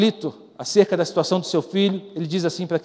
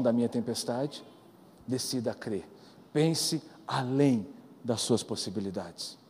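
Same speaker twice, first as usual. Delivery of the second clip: much softer and lower, intimate; tender ministry voice; 7 semitones lower, 6 dB quieter than usual. Acted. Preacher gently leads the church to trust Jesus, hushed and tender. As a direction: lean in and comfort them quietly.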